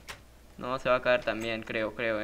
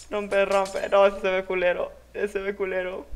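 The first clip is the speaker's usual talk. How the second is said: loud outburst; 7 semitones higher, 6 dB louder than usual. Real, not acted. Reacting loudly to ugly build.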